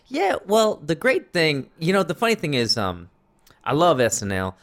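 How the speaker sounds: put-on a store clerk critiquing sketch comedy, lightly accented; light Indian accent. Clerk explaining sketch comedy to a customer, light Indian accent. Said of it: "imagine this next statement in that accent".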